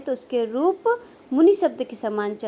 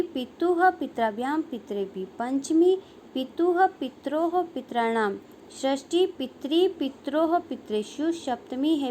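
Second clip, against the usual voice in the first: declension recitation. Shown as a demonstration. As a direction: recite a Sanskrit declension table, form by form. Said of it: "किस प्रकार से बनता है". (शब्द रूप का लयबद्ध पाठ)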